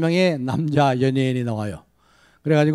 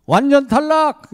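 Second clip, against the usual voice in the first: slow, much higher, louder "완전 탈락!"; total rejection shout; 11 semitones higher, 4 dB louder, slower than usual. Retold or imitated. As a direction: announce the harshest verdict slowly. Judge's final rejection.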